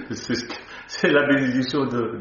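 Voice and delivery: talking through a laugh. Real, not acted. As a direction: chuckle while you speak.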